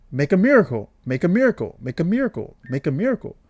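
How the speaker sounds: stuck on repeat like a broken recording; glitching out. Acted. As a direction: loop the phrase with the same lilting tune. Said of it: "She's glitching out".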